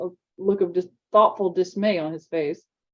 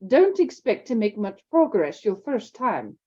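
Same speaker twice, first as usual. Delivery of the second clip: slow, brisk teacher's warning; a hint of a stern headmistress; brisk McGonagall; 3 semitones higher, slower than usual. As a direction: call it over the class.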